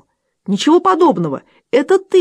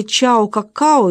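mocking quote; slower than usual. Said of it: "это идиотское".

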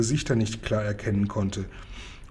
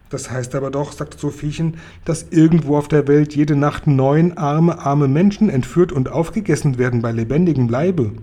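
put-on louder, higher dismayed girl; upset girl; 3 semitones higher, 6 dB louder than usual. A narrator's reading. Sophiechen realises people are eaten nightly, louder upset girl. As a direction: say it aghast, like a child.

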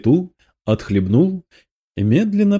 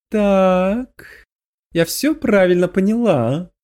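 growing horror; 7 semitones higher, slower than usual. A narrator's reading. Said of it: "с нарастающим ужасом".

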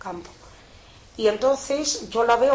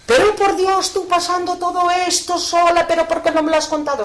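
higher, louder anguished shout; 9 semitones higher, 8 dB louder than usual. Retold or imitated. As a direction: yell it in shocked reproach, fast at the end. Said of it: "empezó a gritos". (gritos de reproche angustiado)

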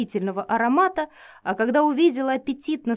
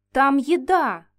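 excited; 4 semitones higher, 5 dB louder, slower than usual. Acted. Heroine urges eagerly.

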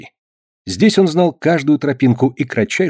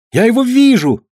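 excited shout; 12 semitones higher, 4 dB louder than usual. A narrator's reading. Boy cries again.

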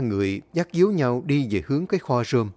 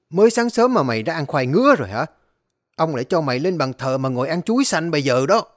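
furious rant; faster than usual. Acted. Furious master threatening servant.

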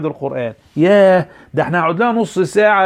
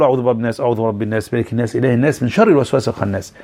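soft recitation; 6 semitones lower, faster than usual. Shown as a demonstration. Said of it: "يلا يا ولاد، قول".

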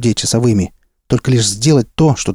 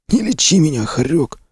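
hissing; 7 semitones higher than usual. A narrator's reading. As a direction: hiss it angrily, higher. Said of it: "зашипел раненый".

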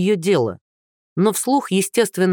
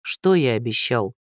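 tired sigh; 6 semitones lower than usual. Acted. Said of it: "устало выдохнул Андрей".

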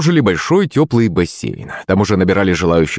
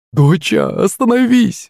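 high, slow pleading cry to her daughter; alarmed cry; 10 semitones higher, slower than usual. A narrator's reading. Mother cries out to stop her daughter, high and slow. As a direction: call her back in alarm, pitch leaping up. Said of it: "вскрикнула Юлина мама".

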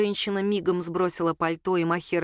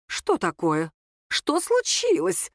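high and slow, voice breaking up; shrill alarm from a flustered older woman; high, cracking voice; 6 semitones higher, slower than usual. A narrator's reading. Свекровь входит и видит ссору — высокий срывающийся голос. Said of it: "высоким срывающимся голосом".

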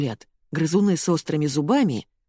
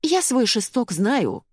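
offended dignity; 6 semitones higher, slower than usual. A narrator's reading. Ирка, offended.

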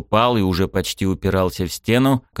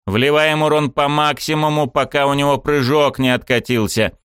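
battle command; 6 semitones higher than usual. Acted.

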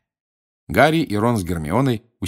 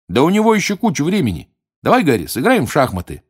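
Ron voice; 8 semitones higher, 5 dB louder, faster than usual. Acted.

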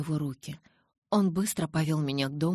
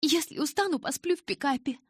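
raised; 11 semitones higher, 3 dB louder than usual. A narrator's reading. Bella answers father sharply.

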